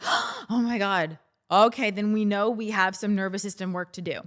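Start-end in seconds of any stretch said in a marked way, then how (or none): 0.0-1.2 slow, drawn-out stunned "Oh my God"; mock shock. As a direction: let it hang in mock disbelief. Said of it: "if you were to freak out".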